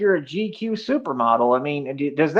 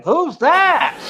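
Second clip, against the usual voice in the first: high, swooning imitation; hammed-up infatuated squeal; mock lovestruck; 11 semitones higher, 4 dB louder than usual. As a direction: mimic someone instantly smitten, pitch leaping up. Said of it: "looked like he was in love".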